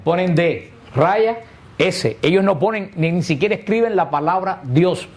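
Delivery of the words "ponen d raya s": slowly spelled out. Shown as a demonstration. Priest spelling it out slowly for the congregation. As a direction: spell "D raya S" slowly, letter by letter. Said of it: "I, O la quitan".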